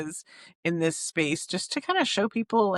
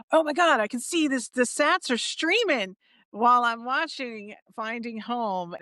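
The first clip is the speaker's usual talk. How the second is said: excited amazement; 5 semitones higher than usual. Retold or imitated. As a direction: gush like you just saw sats streaming live. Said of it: "I'm like".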